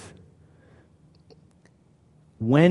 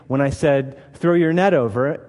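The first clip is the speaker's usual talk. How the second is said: 1 mild scolding; 4 dB louder than usual. Retold or imitated. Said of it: "probably could have castigated them".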